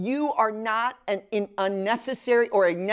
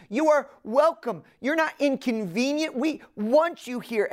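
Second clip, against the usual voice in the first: higher, earnest hosting voice; eager welcome; 5 semitones higher than usual. Retold or imitated. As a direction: assure the guest he belongs. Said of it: "bending over backwards to express to me".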